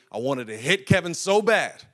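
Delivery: remembered anger. Retold or imitated. Pastor recalling childhood rage at Kevin, heated. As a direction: grit out how badly you wanted to hit him. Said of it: "I was angry".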